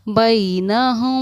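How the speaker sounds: बैनहुम slowly, the म hidden with a held nasal ghunna; nasal ghunna hold. Shown as a demonstration. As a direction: draw out बैनहुम with ikhfa. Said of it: "हम simple ना पढ़कर हमने पढ़ा". ("बैनहुम" इख्फा और गुन्ना के साथ धीमे)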